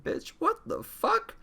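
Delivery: very high, slow squeal of disbelief; a stretched-out, sky-high what-the-hell; outraged disbelief. Retold or imitated. Inner outrage at being ditched.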